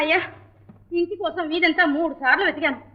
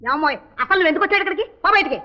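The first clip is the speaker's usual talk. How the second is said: angry order; faster than usual. Acted. Orders stranger out of house.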